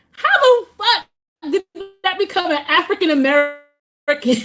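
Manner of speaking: high-pitched incredulous outburst. Real, not acted. Creator questioning misplaced blame on Black Americans, incredulous. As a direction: demand an explanation in high disbelief.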